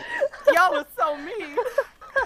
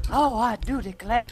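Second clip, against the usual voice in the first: Southern belle drawl. Pretend. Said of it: "talk with a Southern drawl".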